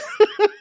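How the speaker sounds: short high giggle; brief high-pitched chuckle; laugh. Real, not acted. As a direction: break into a quick high laugh. Amused while telling her story.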